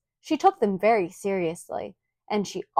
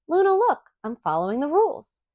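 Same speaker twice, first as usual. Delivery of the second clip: eager dad; 6 semitones higher than usual. Acted. Father proudly showing he obeys.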